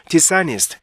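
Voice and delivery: "dishonest" linked as di-SA-nist; native-like reading. Shown as a demonstration. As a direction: join "dishonest" without a break. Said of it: "원어민처럼".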